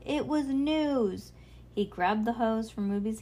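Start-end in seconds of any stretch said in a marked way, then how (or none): 0.1-1.3 high, long-drawn protest; screechy wail. A narrator's reading. Trevor mourns his ruined news story, high drawn-out screech. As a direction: wail it out slowly. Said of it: "screeched Trevor".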